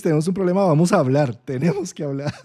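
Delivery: brisk, businesslike, a touch of command; brisk and matter-of-fact. Acted. Jupiter in Gemini setting the agenda, briskly. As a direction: lay it out like a practical fixer. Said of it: "Júpiter en Géminis".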